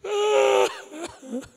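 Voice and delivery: high loud sob; imitated sobbing. Husband weeping when wife is freed, high sob. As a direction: break into a sudden mock sob. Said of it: "ele começou a chorar".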